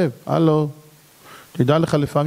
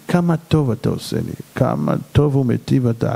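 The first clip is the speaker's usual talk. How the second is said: heartfelt prayer. Acted. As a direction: pour your heart out before God. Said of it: "להגיש את עצמי לפני השם ולהגיד לה". (תפילה מכל הלב)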